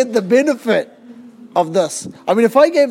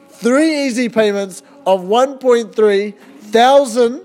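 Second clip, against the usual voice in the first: home shopping host; slower than usual. Acted. Parody infomercial price reveal.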